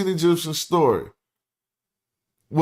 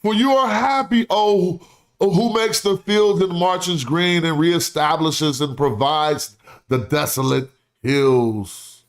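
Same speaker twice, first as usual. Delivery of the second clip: dramatic orator reading. Acted. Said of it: "He was like".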